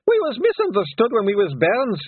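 high, loud Scots shout. A narrator's reading. Rob Anybody denying his name to the lawyers, loud shout. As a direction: bluster the lawyers away. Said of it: "yelled Rob Anybody".

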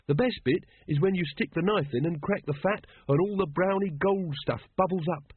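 lost in a food daydream; dreamily. Acted. Carrot describes beef dripping to the others, lightly dreamy. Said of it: "said Carrot dreamily".

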